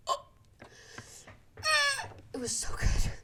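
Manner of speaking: breathy whisper of pure delight. Real, not acted. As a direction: whisper it like a guilty treat. Raving about the slushie.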